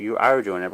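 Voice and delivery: emphasize ARE as a correction; stress on ARE. Real, not acted. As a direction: lean on the word ARE. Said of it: "not can do it".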